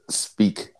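a single whispered speak; whispered word. Real, not acted.

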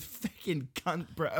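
Australian sign-off; Australian accent. Shown as a demonstration. Showing friend the ending, Australian accent. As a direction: end on a broad Australian note. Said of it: "end it with".

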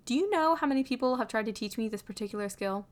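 fed up, starting high and forceful; through gritted teeth. A narrator's reading. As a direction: push the question out with clenched frustration. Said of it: "Louis asks through gritted teeth".

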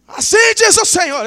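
high, loud cry of proclamation; prophetic proclamation. Acted. Preacher announcing the word of the Lord, loud prophetic proclamation. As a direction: cry it out like a prophet, then exult.

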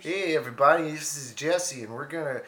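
chirpy mock-Canadian hoser announcement; Canadian accent. Hoser addressing everybody, in a hammed-up Canadian accent. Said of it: "Let out the inner Canadian".

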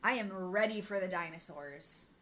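very slow, drawn-out words; big, deliberate announcement, loudest at the start; emphatic declaration. Real, not acted. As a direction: declare it slowly, stretching each word. Mock-heroic declaration of choice.

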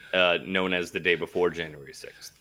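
unvoiced whispered punchline; whispering. Real, not acted. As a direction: whisper the joke aside. Deadpan whispered joke.

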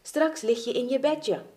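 lightly acted encouragement; encouraging. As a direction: reassure a tired friend with a lift in the voice. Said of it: "sprak hij Amar bemoedigend toe".

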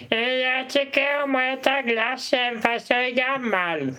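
put-on high, slow old lady voice. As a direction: play a dithering old auntie. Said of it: "Man är typ en gammal tant".

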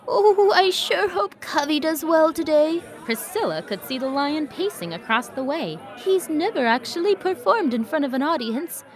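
lightly voiced worried horse. Priscilla worried voice.

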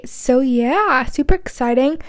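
put-on light passing American accent; a quick mock American accent. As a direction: slip into American for a beat. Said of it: "I just did an American accent".

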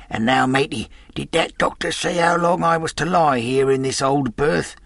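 put-on high, wheedling old sailor; old sea captain. A narrator's reading. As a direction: ask the boy slyly. Captain asks Jim.

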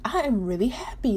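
whispered to herself, in awe; inner whisper. Retold or imitated. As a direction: breathe it out like a secret. I was just like.

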